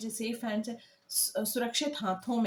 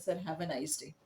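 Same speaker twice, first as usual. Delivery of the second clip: sarcastic politeness; 5 semitones lower, 6 dB quieter, much slower than usual. Shown as a demonstration. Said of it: "हम उसको जाते हुए बोल रहे हैं".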